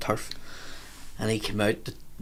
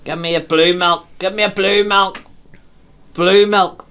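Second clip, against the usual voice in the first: louder and higher with each repeat; rising demand; 8 semitones higher, 6 dB louder, slower than usual. Retold or imitated. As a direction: push harder each time you ask. Drunk demanding milk, escalating.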